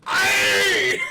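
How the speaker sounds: mock Irish. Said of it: "Did you say Irish?".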